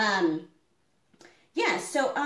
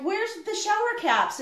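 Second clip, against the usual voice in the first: retelling own question; 11 semitones higher than usual. Retold or imitated. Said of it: "and I'm like".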